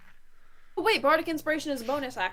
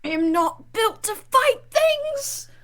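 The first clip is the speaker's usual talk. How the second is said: loud, slow desperate cry; panicked shout; 7 semitones higher, 8 dB louder, much slower than usual. Acted. Character panics in combat.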